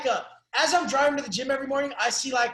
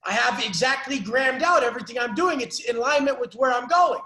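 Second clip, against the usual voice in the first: confident declaration. Retold or imitated. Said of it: "You're like".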